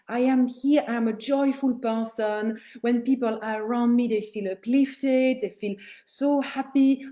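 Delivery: confident affirmations. Shown as a demonstration. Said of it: "And you talk like that about yourself".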